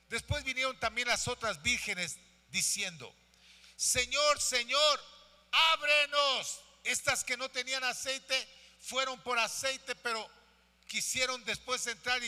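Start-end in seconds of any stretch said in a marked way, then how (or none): 3.8-6.6 raised, urgent plea to be let in; calling at a shut door; pleading virgins. Acted. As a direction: call out higher, drawing out the last word.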